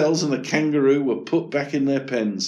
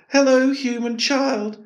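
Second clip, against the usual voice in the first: high, bright-eyed animal voice; chirpy gazelle speaking to the boy; 13 semitones higher than usual. Acted. Gazelle voice in read story.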